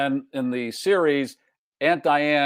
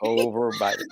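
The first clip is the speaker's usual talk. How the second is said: exaggerated Chicago accent; 3 semitones lower than usual. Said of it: "but no Chicago accent".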